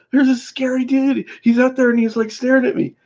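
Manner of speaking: put-on high, frightened child voice; scared kid. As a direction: play yourself as a spooked little kid. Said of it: "I go".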